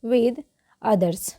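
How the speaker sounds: word by word with gaps between; deliberate model reading; slow read-along. Shown as a demonstration. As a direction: read very slowly for learners to repeat. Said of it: "क्या पढ़ेंगे?".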